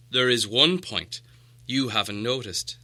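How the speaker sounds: put-on slow, pointed old wizard; hint at a secret, slowly; knowing wizard. Gandalf corrects the dwarves.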